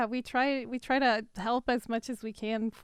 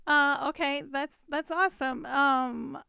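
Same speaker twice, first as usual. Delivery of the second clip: throat catching on the words; frog in throat; 2 semitones higher than usual. Real, not acted. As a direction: talk through a frog in the throat. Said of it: "I have a frog in my throat".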